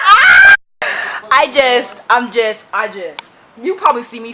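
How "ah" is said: high, loud fangirl scream; ecstatic scream. Real, not acted. Fan overcome by her favorite part, ecstatic scream. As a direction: let the excitement burst out as a scream.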